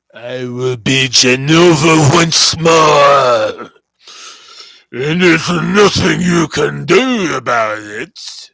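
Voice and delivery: slow, loud villainous declaration; booming proclamation. Retold or imitated. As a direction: roar it out like a triumphant villain. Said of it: "my Lucy Wilde impression".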